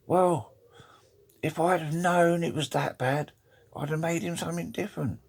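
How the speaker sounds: high-pitched lightly wailing wife voice; English lady. Acted. English wife at the joint funeral, high put-on lady voice. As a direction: pitch it well up as an English widow. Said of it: "the English lady says".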